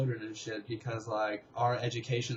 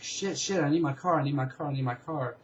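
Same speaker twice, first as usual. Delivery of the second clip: retold panic; 3 semitones higher than usual. Dreamer running after dad's car, retold panic.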